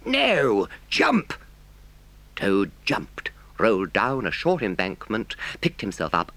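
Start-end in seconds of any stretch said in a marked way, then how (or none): 0.0-1.3 high, urgent command; drawn-out cue, then sharp high cry; calling out. A narrator's reading. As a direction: engine driver calling the moment. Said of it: "heard the driver call out".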